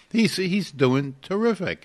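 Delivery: high, loud and slow; retold praise. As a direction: lean into doing terrific, proud. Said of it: "So I said".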